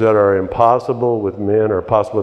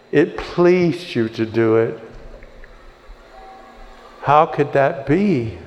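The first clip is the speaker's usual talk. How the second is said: heartfelt prayer. Acted. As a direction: pray aloud to the Lord as if overwhelmed by his love. Leads the prayer.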